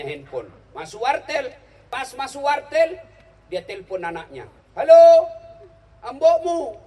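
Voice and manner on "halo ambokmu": high, very loud shouting of halo into the receiver; phone shout. Retold or imitated. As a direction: bellow down a bad phone line like a villager. Old man shouting into phone. (teriak keras di telepon dengan nada tinggi)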